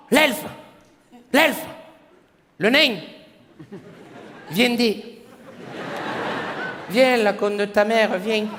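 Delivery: put-on southern French accent. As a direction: call out the elf and dwarf like a Marseillais. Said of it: "s'il avait eu l'accent du Sud". (accent du Sud exagéré, plus aigu)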